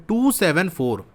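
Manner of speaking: "टू सेवन फ़ोर" as three separate digits. Shown as a demonstration. Teacher reading decimals to students, digit by digit. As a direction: give "टू", "सेवन", "फ़ोर" each its own beat. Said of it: "उनको अलग अलग बोलना है".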